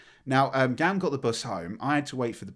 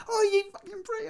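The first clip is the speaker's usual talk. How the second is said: retold shout. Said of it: "we were shouting".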